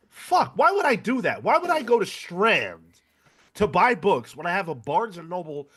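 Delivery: high-pitched, exasperated self-reproach; indignant at your own mistake, pitch easing down. Real, not acted. Kicking themselves over their own slip.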